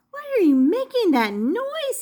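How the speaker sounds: alarmed shout at a singer; hollered question. A narrator's reading. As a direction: yell up at her over the music. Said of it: "he hollered".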